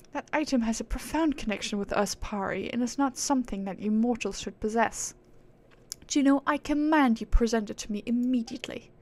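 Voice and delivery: imperious aristocratic British; haughty British accent, issuing commands. Acted. Proud being commanding mere mortals, haughty British accent. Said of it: "she's acting all high and mighty".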